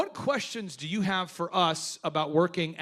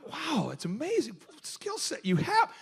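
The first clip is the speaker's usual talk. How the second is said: higher, laughing through the compliment; fake-impressed, breaking into laughter; laughing sarcastic wow; laughing mock praise; 6 semitones higher, 3 dB quieter, slower than usual.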